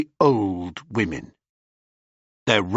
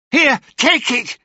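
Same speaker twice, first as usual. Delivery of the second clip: put-on high, loud old crone retort; high hag voice; 12 semitones higher, 4 dB louder than usual. Hag sister dismissing Ennio, high crone voice. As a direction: snap back like an old witch. Hag handing over eye.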